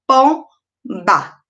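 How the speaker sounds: "pomba" as pom, pause, ba; two separate beats on "pomba", the M closing the first; split into syllables. Shown as a demonstration. Teacher showing where M goes, "pomba" split in two. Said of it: "vai ficar na primeira sílaba de pom".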